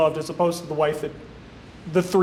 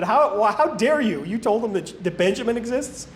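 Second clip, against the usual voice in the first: imitating an affronted father, pitched up; mock indignation; 4 semitones higher than usual. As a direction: play-act being scandalized. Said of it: "he's mad that they told the truth".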